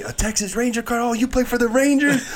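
high, loud sarcastic ribbing; mocking teammates. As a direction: rip into the rookie, mock-shocked. Teammates ripping into him.

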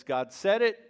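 believing laugh. Pretend. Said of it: "One laughter says".

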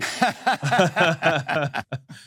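bright burst of laughter; amused laugh. Real, not acted. Host laughing at the spy's dream job, amused laugh. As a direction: laugh out loud at the idea.

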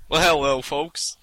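put-on southern accent. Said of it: "describe a mechanical device in a southern accent".

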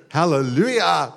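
loud, high celebratory cry; jubilant shout. Shown as a demonstration. Preacher demonstrating joy instead of moping, jubilant shout. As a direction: shout it out with exuberant praise.

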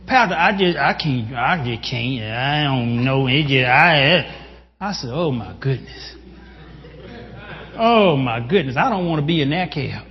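low, defeated imitation of a troubled congregant; mock despairing congregant. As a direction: imitate a hopeless counselee, voice sinking. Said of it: "They're telling me stuff gonna go wrong".

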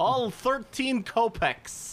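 put-on slow, high Russian accent; drawn-out hammy Russian voice. Russian seller bit.

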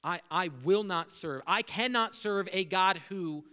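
threatening God. Retold or imitated. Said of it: "Sometimes it looks like a threat".

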